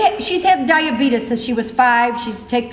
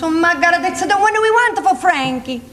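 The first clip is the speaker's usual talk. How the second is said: put-on mother's Pennsylvania accent; 3 semitones higher than usual. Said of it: "She talks like that 'cause she was born in Pennsylvania".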